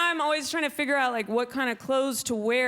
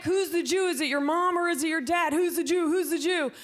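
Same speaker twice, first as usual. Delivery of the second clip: high, pushy mock interrogation; nosy questioner; 5 semitones higher than usual. Mocking the people who quiz her about being Jewish. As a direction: play the pestering stranger high and insistent.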